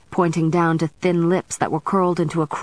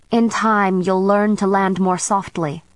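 matter-of-fact; 2 semitones higher than usual. Acted. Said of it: "the witch said matter-of-factly".

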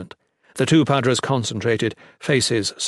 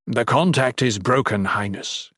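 calming. Acted. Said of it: "Ethris said calmingly".

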